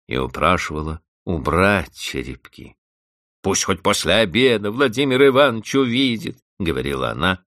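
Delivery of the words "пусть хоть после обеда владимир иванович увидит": a touch of tearful pleading; weeping. A narrator's reading. Vanda crying to the housekeeper, mild tearful plea. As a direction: beg through tears. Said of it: "горько плача".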